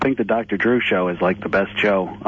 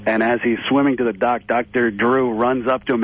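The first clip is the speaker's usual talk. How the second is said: normal talking voice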